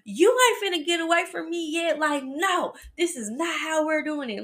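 high, breathless pleading at the runaway box; half-laughing panic, chasing it down; frantic chase. Retold or imitated. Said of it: "I'm like".

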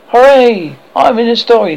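high, loud joyful shout; delighted cheer. A narrator's reading. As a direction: cheer at being in the story. Toodles delighted.

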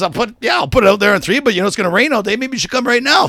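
high, loud mock exasperation; retold heated reply. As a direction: imitate a fed-up roommate answering back.

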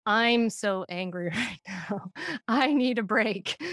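calm yell. Retold or imitated. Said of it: "I was able to yell".

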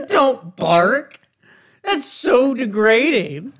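giggling, high-pitched don't bark; laughing protest. Real, not acted. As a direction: laugh while begging him to stop. Protesting friend's barking.

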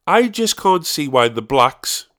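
slow, deliberate imitation of nana; quoting nana. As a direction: drag the words out like an elderly nana. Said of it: "and I quote".

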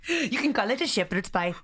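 put-on comic, unplaceable Irish-style accent; muddled mock accent. Topping co-host's joke in a muddled Irish accent. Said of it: "What is that accent?".

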